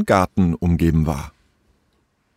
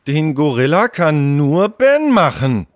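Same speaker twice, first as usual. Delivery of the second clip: higher, emphatic, stern insistence; 7 semitones higher than usual. Acted. Tom stops Leo painting Ben's gorilla, stern. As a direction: lay down the rule firmly. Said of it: "sagte Tom streng".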